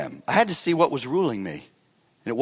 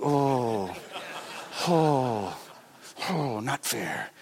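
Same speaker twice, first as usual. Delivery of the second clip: mock whine; 4 semitones lower, 7 dB quieter, much slower than usual. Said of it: "I was like".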